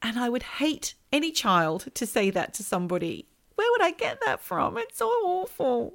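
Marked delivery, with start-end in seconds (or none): 3.5-5.9 much higher, appalled; horrified. Real, not acted. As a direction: squeal it out in shocked disbelief. Horrified at her own past.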